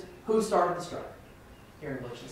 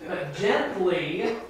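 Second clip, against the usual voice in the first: slow gently; much slower than usual. Shown as a demonstration.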